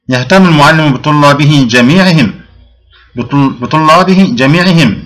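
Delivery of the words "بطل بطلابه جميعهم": slow, stressed. Shown as a demonstration. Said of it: "باء حرف جر".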